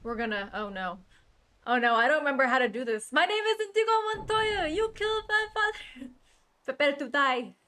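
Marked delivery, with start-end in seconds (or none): 3.1-7.5 loud, high hammed-up movie duelist; Inigo Montoya quote. Streamer hams up a movie duel line, loud and high. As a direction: declaim it like a vengeful swordsman.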